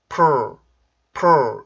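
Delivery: "purr" with lips pushed forward; rounded-lip P+R. Shown as a demonstration. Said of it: "이런 식으로 입술이 나와서".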